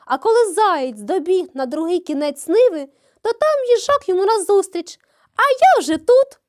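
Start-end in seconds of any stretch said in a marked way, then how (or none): 5.4-6.4 high, loud, smug call; triumphant shout. A narrator's reading. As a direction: gloat at the arriving hare. Hedgehog taunting the hare.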